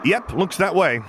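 high, loud talking over his sister; brisk, loud interruption; loud cover-up. A narrator's reading. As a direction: drown her out cheerfully. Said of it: "Jacen said loudly over her".

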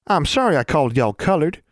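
put-on high rustic girl voice; high-pitched little sister; Innocence. A narrator's reading. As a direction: apologize as an earnest country child. Child apologizes in character.

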